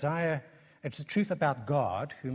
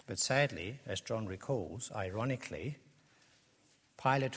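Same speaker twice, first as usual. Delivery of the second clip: ordinary talk, nothing marked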